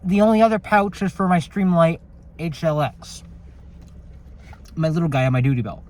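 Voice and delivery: talking through a mouthful; chewing nuggets while talking; mouth full. Real, not acted. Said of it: "I'm gonna talk with my mouth full".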